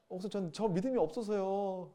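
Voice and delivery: slow, hesitant "믿음이" with a falling sigh; hesitant excuse. Retold or imitated. Church member excusing themselves to the pastor, slow and hesitant. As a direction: drag out the excuse reluctantly. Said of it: "진짜 제가 진짜 많이 들어요".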